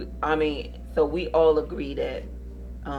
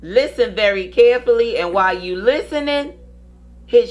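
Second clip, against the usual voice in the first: slow drawn-out host promo; announcer; slower than usual. Acted. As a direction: slowly build up the next segment. Show host teasing segment.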